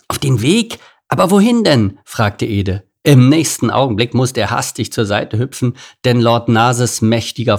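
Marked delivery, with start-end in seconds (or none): 0.1-2.0 high, rising baffled questions; puzzled questioning. A narrator's reading. Meerkat puzzled by the king's order, questioning. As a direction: ask back, taken aback.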